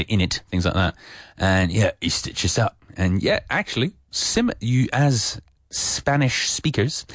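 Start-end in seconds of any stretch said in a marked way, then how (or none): 0.0-0.4 Cockney "in it", said as one word, innit. Shown as a demonstration. Teacher repeating the slang example, Cockney accent. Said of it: "so you say". 2.0-2.8 Cockney with the h of "he" dropped. Shown as a demonstration. Teacher returning to the example, Cockney accent. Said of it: "my terrible Cockney accent".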